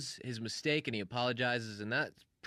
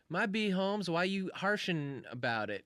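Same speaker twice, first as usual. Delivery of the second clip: mock hip slang, pitched up then slowing; hammed-up cool-guy comeback; hipping it up; 6 semitones higher, slower than usual. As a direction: put it on them, playfully cool. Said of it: "maybe he's hipping it up".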